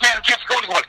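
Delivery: high, rambling Southern-Creole patter; imitating a friend's odd Creole-Southern accent; strange Southern-Creole accent. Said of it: "he talked like this".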